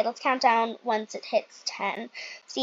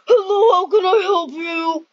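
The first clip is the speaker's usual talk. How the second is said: loud, higher hotel clerk greeting; receptionist voice; 5 semitones higher, 8 dB louder than usual. Pretend. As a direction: greet the guest like an eager clerk.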